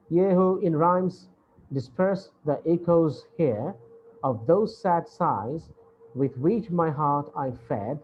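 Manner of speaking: slow, measured poetry reading, phrase by phrase; poem recitation. Acted. Teacher reading an Italian sonnet to the class, slow recitation. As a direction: recite the verse deliberately, pausing after each line.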